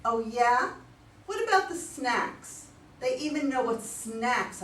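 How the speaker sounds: high, loud indignant comeback; indignant challenge. Acted. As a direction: throw it back at him, outraged. Wife counters in argument.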